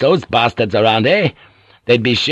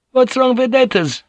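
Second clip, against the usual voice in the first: puzzled sailor voice; 14 semitones higher than usual. Acted.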